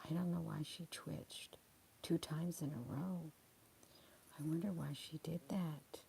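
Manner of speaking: barely voiced, don't wake her; whisper. Real, not acted. Whispering her worry about the twitching dog.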